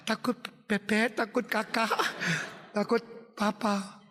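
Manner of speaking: mock sobbing, halting; scared child. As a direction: whimper out each fear. Sobbing child lists fears.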